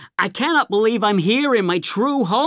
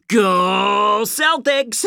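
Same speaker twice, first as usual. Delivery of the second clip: excited cheer; much slower than usual. Acted. Fan cheering for his team.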